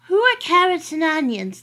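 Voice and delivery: high, eager puppy voice; innocent dog. Acted. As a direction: ask it like a naive, wide-eyed dog. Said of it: "the dog asked".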